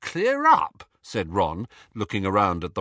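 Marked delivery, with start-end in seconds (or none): 0.0-0.9 much higher, incredulous question; can't believe what he heard; baffled echo. A narrator's reading. Ron baffled by the request.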